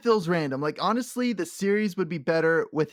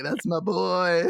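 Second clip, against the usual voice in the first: proud father; slower than usual. Retold or imitated. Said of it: "He's like".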